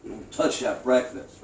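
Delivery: high, loud call down the jail tier, slowing on the threats; inmate hollering. Retold or imitated. Inmate hollering down the tier at the new kid, loud. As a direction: bellow it down the cellblock like a threat. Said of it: "Somebody hollers down to my cell".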